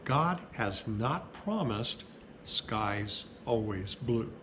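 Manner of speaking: reads the poem slowly, each line set apart; slow measured reading with pauses; slow poem reading at a funeral. Acted. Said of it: "So I'll read it slow".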